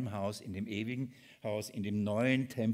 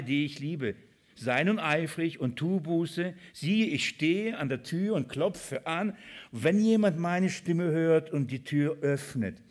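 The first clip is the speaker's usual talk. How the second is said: scripture reading; 4 semitones higher, 5 dB louder than usual. Acted. Preacher reading Christ's words to the church, emphatic scripture reading. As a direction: proclaim the verse with measured force.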